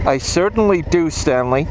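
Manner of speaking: lightly voiced comedy double-act catchphrase; a hint of old comedy film patter; Lowland Hardy impression. Motorbike vlogger amusing his viewers, light comic impression. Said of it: "That was a Lowland Hardy impression".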